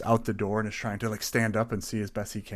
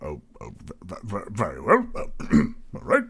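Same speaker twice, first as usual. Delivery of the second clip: nervous barkeep; 4 dB louder, faster than usual. Acted. Barry stammering.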